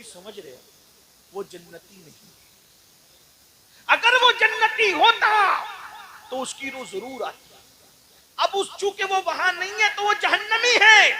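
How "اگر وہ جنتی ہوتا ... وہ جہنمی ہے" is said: full-force preaching. Acted. Preacher warning the gathering, booming loud and high. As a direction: thunder it out to the congregation.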